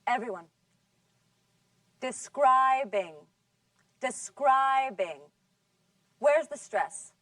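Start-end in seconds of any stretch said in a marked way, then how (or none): 2.0-3.1 "Describing" with a long, drawn-out middle syllable; stress on second syllable. Shown as a demonstration. Teacher asks class where the stress is, "Describing" stressed on the second syllable. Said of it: "On the second syllable". 4.0-5.2 "Describing" with a long, drawn-out middle syllable; stress on second syllable. Shown as a demonstration. Teacher asks class where the stress is, "Describing" stressed on the second syllable. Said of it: "On the second syllable".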